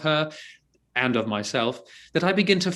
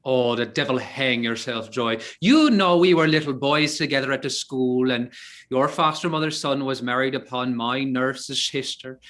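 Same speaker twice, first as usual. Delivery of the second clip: Irish brogue. Acted. Archer greeting the priest as his cousin, in a hearty Irish brogue. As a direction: greet him as a long-lost Irish cousin. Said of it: "His brogue will hang mine".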